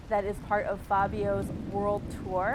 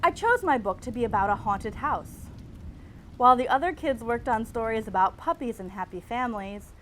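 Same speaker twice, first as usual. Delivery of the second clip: reading own essay; 3 dB louder than usual. Acted. Reads her tenth grade essay.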